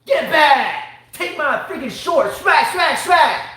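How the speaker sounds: high, loud wrestler-style outburst; mock attack yell. Dad playing at avenging his kid, mock attack yell. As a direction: shout each hit like a flying attack. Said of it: "and be like".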